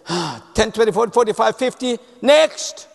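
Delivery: counting out the cash, slowing and dismissive at next; a hint of a rude teller brushing him off; cold and curt. Rude teller counting change, mildly cold and dismissive. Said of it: "unmistakable that she hated me".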